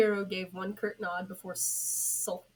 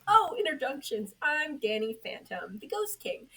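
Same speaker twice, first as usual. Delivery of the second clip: high, loud, grand self-introduction; showy introduction; 7 semitones higher, 6 dB louder than usual. Acted. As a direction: announce yourself like royalty. Ghost king grandly introduces himself.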